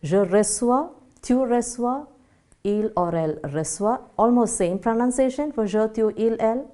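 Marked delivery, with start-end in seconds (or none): 0.0-4.0 je reçois, tu reçois, il reçoit, each said clearly; conjugation read out. Shown as a demonstration. Teacher conjugates recevoir for students, clearly. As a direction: spell out the forms clearly. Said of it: "So it goes".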